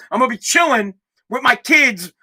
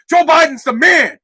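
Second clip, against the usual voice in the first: mock enthusiasm; 4 semitones higher, 4 dB louder than usual. Paid praise he would shout.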